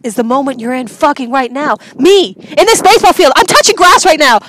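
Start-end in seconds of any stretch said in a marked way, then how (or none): 2.0-4.4 loud, high ecstatic yell; loud giddy yell; excited shouting. Real, not acted. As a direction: shout it out to the field. Excited shouting on a baseball field.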